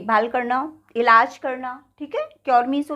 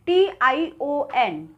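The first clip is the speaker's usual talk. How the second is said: slow spelling; much slower than usual. Shown as a demonstration. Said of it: "जहाँ भी T I O N होता है".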